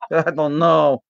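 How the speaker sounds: lightly put-on Polish restaurant owner; mock Polish accent. Restaurant owner scolds the sick guest, mild Polish accent. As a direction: play the gruff owner with a hint of Polish accent. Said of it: "You sound just like Olaf".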